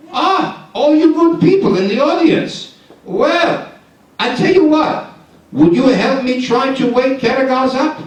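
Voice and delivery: rally the audience; high excited audience call; addressing audience. Acted.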